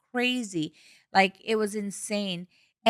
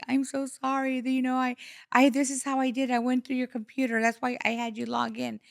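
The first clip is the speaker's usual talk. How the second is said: apologetic son; 3 semitones higher than usual. Retold or imitated. Voices son's apologetic confession.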